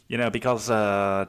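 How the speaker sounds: put-on Aussie accent; hammed-up Australian. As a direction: talk like an Australian mate. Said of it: "say it in a fucking Australian accent".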